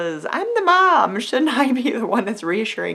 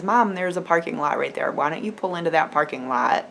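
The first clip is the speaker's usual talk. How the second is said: calm, level retold reassurance; 3 semitones lower than usual. Sixteen-year-old son talking mom down, calm. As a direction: say it evenly, steadying a panicking parent. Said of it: "very calmly says".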